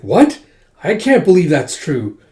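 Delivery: mildly hammed-up astonishment; shocked disbelief. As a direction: react to startling news in disbelief. Acted shocked reaction to news.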